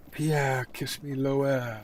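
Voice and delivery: a hint of a coy lover; Marie cooing.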